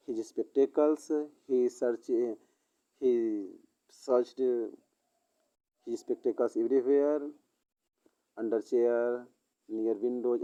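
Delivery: story dictated word by word, very slow; slow dictation. Acted. Teacher dictates the sample story to students, very slow. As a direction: spell it out slowly for students to copy.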